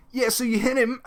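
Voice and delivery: high clueless question; mocking the GM. The GM ignoring the rules correction, high mock dude voice. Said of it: "just went".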